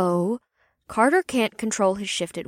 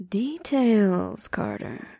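purring; slower than usual. Acted. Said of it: "The succubus purred".

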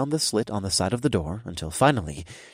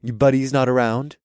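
put-on giggly drunk; 3 semitones higher, 4 dB louder than usual. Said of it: "I giggled drunkenly".

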